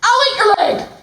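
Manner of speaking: lion losing patience with the giraffe; mock angry. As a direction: snap out the threat in play.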